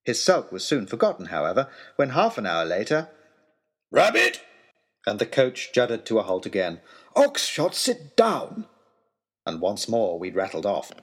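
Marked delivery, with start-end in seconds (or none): 3.9-4.4 high, loud yelp; excited shout. Acted. Oxshott spotting a rabbit, excited shout. Baronet spots game again. 7.1-8.7 high, loud scolding; angry order. Acted. Lord Daunt ordering Oxshott down, angry.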